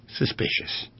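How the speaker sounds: squeaky conspiratorial whisper; high whispered aside. Acted. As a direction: whisper it as a sly punchline, voice up high. Punchline aside on too generous.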